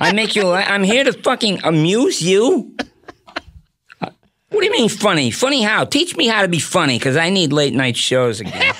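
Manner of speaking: talk-show host playing offended mobster; mock-indignant questioning in a comic host voice; Jay Leno. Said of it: "do the range of Leno".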